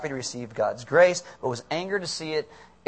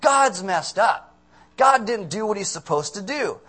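higher, indignant mock complaint; a touch of outraged protest; mildly acted anger; 5 semitones higher, 4 dB louder than usual. Jonah complaining that God failed him, mock indignant. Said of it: "This is the word for angry".

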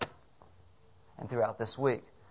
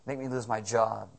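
mock angry prayer; 5 dB louder, slower than usual. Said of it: "What has caused you to go".

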